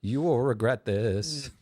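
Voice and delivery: ominous robot. Pretend.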